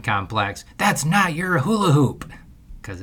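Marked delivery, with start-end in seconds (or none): 0.8-2.3 higher, louder mock yell across the yard; hollering after a kid who took the hoop; retold yell. Dad yelling at the neighbor girl, mock yell. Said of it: "yelling at a nine-year-old little girl".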